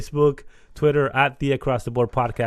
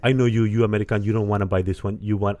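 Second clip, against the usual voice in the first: bad Irish accent; 2 semitones lower, faster than usual. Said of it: "I'm doing a bad Irish accent".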